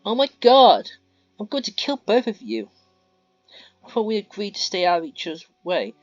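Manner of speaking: very loud, high screaming threat; furious shout. Acted. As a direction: explode at them, ready to kill. Mia exploding at the friends.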